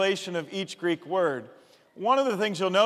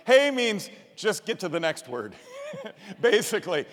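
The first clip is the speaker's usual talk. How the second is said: laughing. Real, not acted. Laughing at the teacher's saying.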